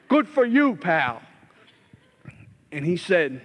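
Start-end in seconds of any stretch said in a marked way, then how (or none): 0.1-1.2 sarcastic jab. Retold or imitated. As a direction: throw a bitter mock congratulation. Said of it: "I got an attitude".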